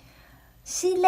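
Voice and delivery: 失礼 whispered high and breathy; whispered drill. Shown as a demonstration. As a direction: whisper 失礼 as a model for repeating. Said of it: "So try it".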